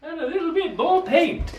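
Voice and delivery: high giggling delivery; laughing. Real, not acted. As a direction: say it through a laugh.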